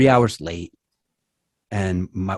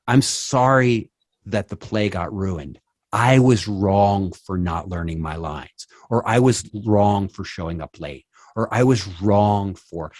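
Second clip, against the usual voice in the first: sincere owning up; slower than usual. Shown as a demonstration. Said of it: "Focus on your own behavior".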